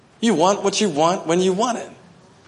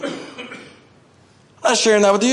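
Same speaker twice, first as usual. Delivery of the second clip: God's amused refusal; 3 semitones higher, slower than usual. Acted. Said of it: "God said".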